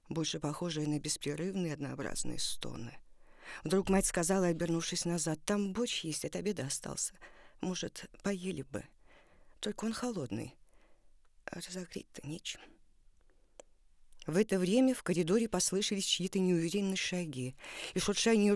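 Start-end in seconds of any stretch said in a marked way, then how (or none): 5.5-12.6 soft, tired, fading voice; weary and quiet. Acted. Weary mother offers cold soup.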